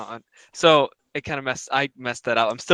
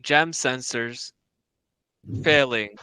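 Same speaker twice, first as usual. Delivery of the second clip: very slow, halting delivery; slow halting robot; 3 semitones lower, slower than usual. Retold or imitated. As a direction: drag each word like a machine. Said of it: "don't say it out loud before".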